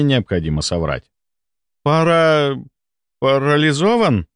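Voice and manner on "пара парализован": trembling voice. A narrator's reading. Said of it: "переспросил он дрожащим голосом".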